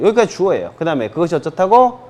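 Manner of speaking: ordinary talk, nothing marked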